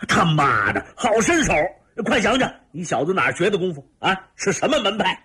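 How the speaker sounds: high, excited shouting; eager, high-pitched burst of questions. A narrator's reading. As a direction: cry out in rough admiration. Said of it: "大叫道".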